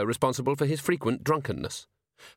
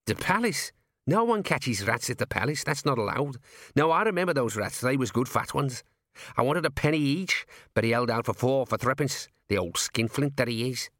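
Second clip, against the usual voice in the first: indignant gnome; 2 semitones higher than usual. Acted. Gnome rounding on the sergeant, indignant. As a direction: bristle back at him. Gnome recalling the rat sale.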